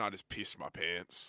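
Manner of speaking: plain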